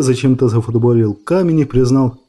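plain reading voice

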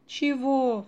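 high, loud startled "Чего?"; exclaiming. Acted. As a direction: blurt it out in disbelief. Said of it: "воскликнула Даша". (удивлённый возглас)

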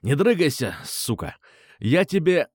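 snarling thug threat; growled threat. Acted. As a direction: growl it right in his face. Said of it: "и зарычал".

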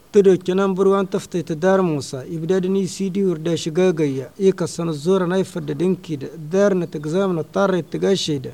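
measured verse recital, line by line; poem recitation. Acted. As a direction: recite the verse in even, rhythmic lines.

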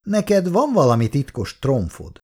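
a touch of suspicion in the question; suspicious. Acted. Old father asks his son, lightly suspicious. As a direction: probe him, half-distrustful. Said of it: "mondta gyanakvóan".

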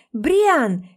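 mild shriek. Acted. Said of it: "взвизгиваю я".

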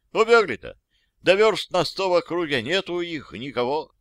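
lightly voiced folksy old soldier. Old soldier reporting to his officer, folksy and lively. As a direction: tell it like a simple old private.

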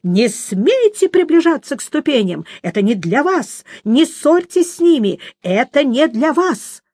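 lightly voiced shrill siren warning; mild shrill warning cry; piercing shriek. A narrator's reading. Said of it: "пронзительно крикнула она".

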